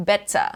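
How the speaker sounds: 'better' as 'bettuh', the R dropped; silent final R. Shown as a demonstration. Teacher repeating for learners, 'better' without R. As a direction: let the end of 'better' go without any R. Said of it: "ไม่มีเสียง เออ เลยนะคะ ปล่อยทิ้ง".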